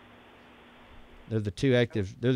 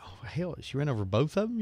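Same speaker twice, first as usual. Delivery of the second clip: higher-pitched retold dismay; near tears; 4 semitones higher, 4 dB quieter than usual. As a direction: relive being on the verge of crying, mildly acted. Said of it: "I was about to cry".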